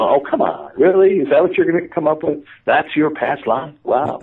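scoffing inner voice, pitch lifting on the questions; mocking disbelief. Conscious mind mocking his past-life vision, mock disbelief. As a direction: imitate your own incredulous, mocking thoughts. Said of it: "I'm laughing in my head, going".

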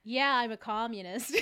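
lightly mocked American accent; American accent with a laugh in it. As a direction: play at being an American saying it. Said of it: "sound like an American saying communist".

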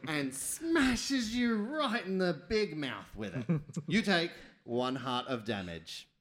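lightly dramatic storytelling with slowed key words; game master narration. Pretend. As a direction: narrate the mishap, stretching the blow.

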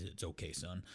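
low, soft fatherly murmur; retold fatherly reassurance. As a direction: gently imitate a reassuring dad. Retold father reassuring his son.

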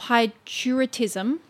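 hypopituitarism sounded out with care; hypopituitarism, a careful attempt at a hard word; careful pronunciation. Shown as a demonstration. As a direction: try hard to get hypopituitarism right. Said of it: "gonna try so hard to pronounce".

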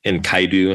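Enkaidu with a long i in the middle; alternative pronunciation. Shown as a demonstration. Co-host recalling what they were told, alternative pronunciation. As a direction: say "Enkaidu", en-KYE-doo. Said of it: "I think is what we were told".

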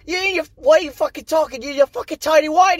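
mock angry rant. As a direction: rip into him mid-fight. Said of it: "where Idris Elba's like".

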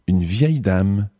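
ordinary talk

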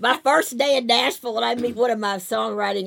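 loud, high rush of excitement; excited. Retold or imitated. Kyle explaining his shock at meeting his idol, loud and excited. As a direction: blurt it out, still starstruck. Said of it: "He goes".

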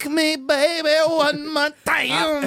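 mock pop singer. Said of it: "Did you sound like Michael Jackson".

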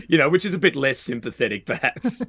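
normal talking voice

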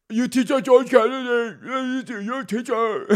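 high-pitched mocking child voice; excited schoolkids. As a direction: imitate kids pestering a teacher, way up high. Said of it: "all these kids like".

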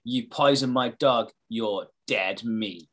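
slow, weighty mock menace; ominous, drawn-out delivery; dramatic threat. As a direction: read the threat out slowly, dropping on the last words. Reads out neighbour's threat dramatically.

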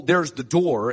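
"door" drawn out and loud; slow, loud weight landing on "door"; stress on door. Shown as a demonstration. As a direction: point it out, leaning on "door". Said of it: "and the emphasis on the door".

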